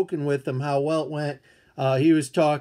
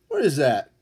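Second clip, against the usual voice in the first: lower, comic puzzled voice after the squeak; mock puzzled grumble; 3 semitones lower than usual. Streamer to chat, eyeing the mail, a low mock-baffled grumble. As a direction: drop it down like a baffled grump.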